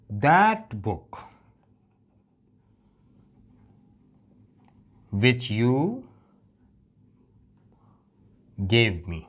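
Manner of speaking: "that" stressed to single out the book. Shown as a demonstration. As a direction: lean on "that book". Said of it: "बल्कि वो किताब है, that book".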